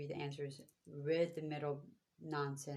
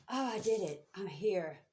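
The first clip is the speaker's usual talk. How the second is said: a burst of mock triumph, louder; mock triumphant; 3 semitones higher, 7 dB louder than usual. Imitating someone proud to reach the end, mock triumphant. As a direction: cheer it like you just arrived, half-playful. Imagined person reaching the goal.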